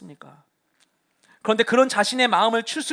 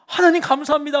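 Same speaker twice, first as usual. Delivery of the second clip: louder, higher, grateful cry; relieved thanks; 6 semitones higher, 6 dB louder than usual. Pretend. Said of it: "이게 정상적이라면은". (안도하며 크게 감사)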